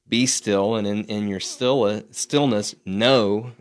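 "know" lifted and held, with a pause after "Be still"; slow meditative read that lands on "know"; emphasis on know. Shown as a demonstration. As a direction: lean on the word "know" to end the line. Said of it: "emphasis on know".

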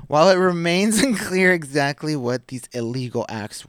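resume reading through a laugh; real laugh inside the news read; amused read-aloud. Real, not acted. Still amused, resumes reading the article.

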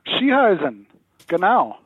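high, hammed-up mock German; ridiculous German accent. The talking accent chair heard down the phone, in a ridiculous German accent. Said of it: "this ridiculous German accent".

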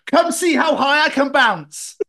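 put-on high, loud, drawn-out kid's yell; mock toddler shout, stretched out and excited; imitating yelling toddler. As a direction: holler like a small son from his crib. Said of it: "my son is yelling from his crib".

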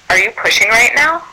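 careful question climbing high at the end; retold startled check, pitch rising; incredulous question. Doula to squinting mother in labour, incredulous.

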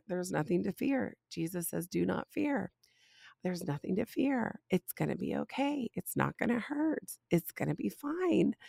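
put-on soft, gentle reassurance to a scared child; soothing mom. Mom calming her daughter before a tooth pull, soft and soothing. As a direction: hush her fears softly.

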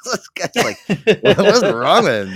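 high, laughing disbelief. Real, not acted. Host cracking up over the creepy guy, laughing incredulously. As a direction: talk through real laughter. Laughing at his own impression.

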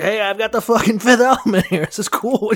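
excited cab driver. Acted. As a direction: brag like a clueless cabbie. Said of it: "there's, like, this cab driver".

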